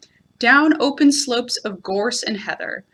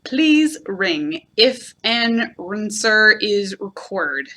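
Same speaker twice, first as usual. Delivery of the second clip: reading a notice; much slower than usual. Shown as a demonstration. Reading Owl's misspelled notice to a child, slow and careful. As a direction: spell it out like a sign. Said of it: "a notice which said".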